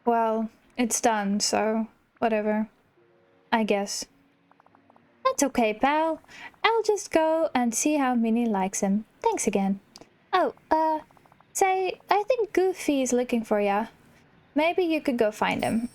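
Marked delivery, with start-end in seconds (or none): 5.2-15.9 cheery cartoon character. Reading a cheerful character's dialogue.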